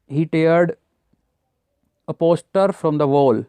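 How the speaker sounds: words drawn out very slowly; teacher stretching out an example phrase; slow example read. Shown as a demonstration. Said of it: "slow example read".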